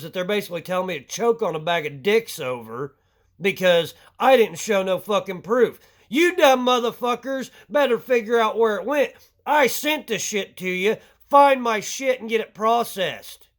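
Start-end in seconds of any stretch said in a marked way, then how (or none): 6.1-13.5 angry demand. Real, not acted. Ranting at the tax office.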